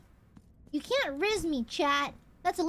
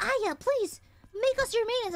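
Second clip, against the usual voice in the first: mock pleading in a higher voice; pleading maidens; 6 semitones higher than usual. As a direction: imitate swooning fans begging, pitched up. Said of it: "They're all like".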